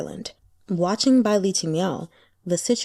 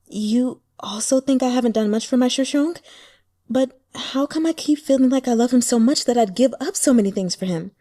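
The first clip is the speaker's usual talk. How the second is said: put-on anguished young woman; 5 semitones higher, 4 dB louder than usual. Heroine agonizing over her love.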